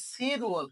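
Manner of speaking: সি রুয়াল with L carried over as R; linked pronunciation. Shown as a demonstration. Teacher shows July's sound, সি রুয়াল linked with R. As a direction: say সি, then R-initial রুয়াল. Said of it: "কি উচ্চারণ হবে?".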